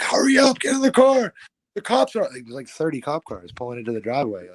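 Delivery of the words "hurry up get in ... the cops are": higher, louder mock panicked dad; dad urging. Dad rushing them to the car as cops arrive, high frantic. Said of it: "my dad's like".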